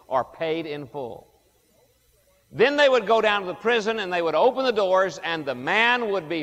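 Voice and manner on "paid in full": quiet, slower "paid in full" after the first; soft repeat. Acted. Preacher explaining tetelestai, softly echoing the phrase. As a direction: let "paid in full" fall softly, almost to yourself.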